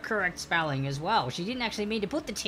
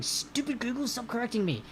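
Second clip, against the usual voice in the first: mock frustration; 4 semitones higher, 3 dB quieter than usual. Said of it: "me tapping on my keyboard going".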